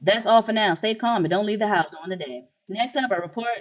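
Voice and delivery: formal anchor delivery, even and measured; news read. Acted. An anchor warning citizens about visitors, formal news read. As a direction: read it like a TV newscaster.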